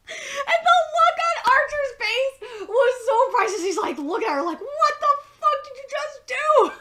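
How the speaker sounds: real laughter, high and loud through the words; can't stop laughing while retelling. Real, not acted. Vlogger laughing while describing Archer's face, laughing. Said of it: "laughing through the retelling".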